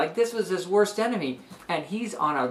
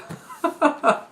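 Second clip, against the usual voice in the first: high laugh; 11 semitones higher, 3 dB louder than usual. Real, not acted. Teacher amused by the plot.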